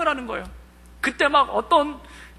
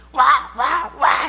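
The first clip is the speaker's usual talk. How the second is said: retold cheer; much slower than usual. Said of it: "이렇게 지르는 거예요".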